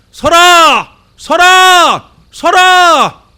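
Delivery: high, loud repeated yells of stop; police shout. Retold or imitated. Policeman chasing a thief through the village, shouting. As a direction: bellow after a fleeing thief. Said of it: "이렇게 외치며 따라갈 거예요".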